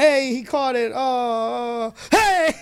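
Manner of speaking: high excited calling out. Retold or imitated. Retold excited shout, high pitch.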